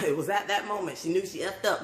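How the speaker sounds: dramatic meme-narrator delivery of the line; meme sound bite. Retold or imitated. Quoting the internet sound bite as a dramatic mock narration. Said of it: "the sound bite".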